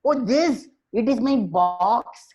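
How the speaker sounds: high voice, stretching out "box"; monkey showing off. Acted. Monkey telling the owl about its box, high-pitched. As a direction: pitch it up and draw out the last word.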